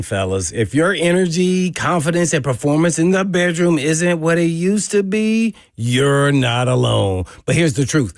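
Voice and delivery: smooth, steady sponsor read. Acted. Host reading a sexual health sponsor ad on air, smooth pitch. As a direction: sell it like a radio spot.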